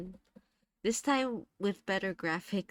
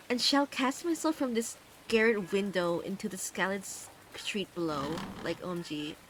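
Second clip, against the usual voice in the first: lightly put-on Valley Girl accent reading. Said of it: "start reading Dagon with a Valley Girl accent".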